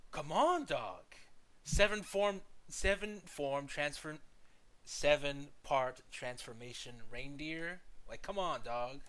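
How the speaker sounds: loud, pleading disbelief; exasperated. Real, not acted. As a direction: come on, give him credit. Listing Chopper's forms, worked up.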